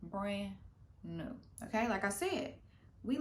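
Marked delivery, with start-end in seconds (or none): 0.0-1.4 showing off. Retold or imitated. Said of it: "be like".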